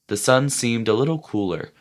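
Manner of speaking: plain reading voice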